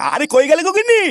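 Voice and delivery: loud, high calls for his wife from the table; impatient husband yelling for his dinner; calling out loudly. Acted. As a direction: holler across the house for the missus. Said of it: "এত চিল্লাচ্ছ কেন?".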